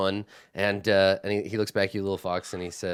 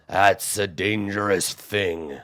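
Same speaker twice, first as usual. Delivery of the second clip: slow, grave cyclops warning; ponderous giant caution; 3 semitones lower, much slower than usual. Acted. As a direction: warn the little one.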